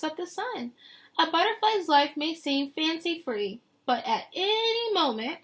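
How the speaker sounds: lilting picture-book read; reading to children. Acted. Teacher reading the book text to her class, lilting. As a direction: paint the scene for the kids.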